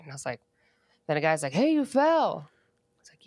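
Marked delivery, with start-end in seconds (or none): 1.5-2.5 lightly voiced passerby, pitched up; mock stranger voice. Stranger at the pump points out her fall, lightly mocked, higher. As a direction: toss it off like a helpful stranger. Stranger at gas station comments.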